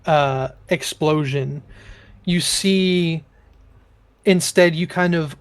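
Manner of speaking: slow, measured scene narration; game master narration. A narrator's reading. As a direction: paint the spell's effect slowly. DM narrating spell effects.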